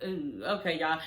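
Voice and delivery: low, quiet "ooh, okay" aside; retold reaction under the breath; hushed reaction. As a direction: drop right down, as if taken aback. Acts out own taken-aback reaction.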